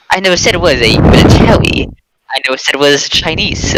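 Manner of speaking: fast, insistent denial; defensive denial. Acted. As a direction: rush it out, defending yourself.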